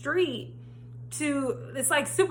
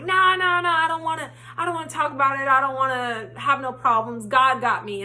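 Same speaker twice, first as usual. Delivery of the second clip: upset refusal; 3 semitones higher, 5 dB louder than usual. Retold or imitated. Mom refusing to talk about the laundromat, insistent. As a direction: brush it off firmly, wanting no trouble.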